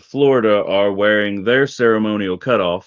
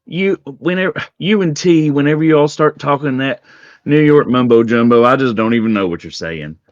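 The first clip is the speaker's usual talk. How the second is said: mocking voice; 4 semitones higher than usual. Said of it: "She just like".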